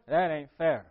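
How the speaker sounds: grumbling it's not fair; a hint of a sulky older brother; sulky complaint. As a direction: voice the resentment. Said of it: "You know how you feel?".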